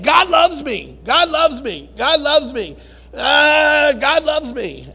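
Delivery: fervent repeated declaration; emphatic self-affirmation. Shown as a demonstration. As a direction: hammer it into your own thick head. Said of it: "I gotta keep saying".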